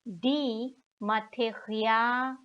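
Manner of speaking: "die Materialien" the German way, ma-te-ri-AA-li-en; German pronunciation. Shown as a demonstration. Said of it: "in the German way".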